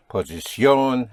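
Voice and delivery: posición as po-si-SYON, last syllable pushed; posición with the accent on the O; stress on the ending. Shown as a demonstration. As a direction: hit the final ón of posición. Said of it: "find an accent over the O".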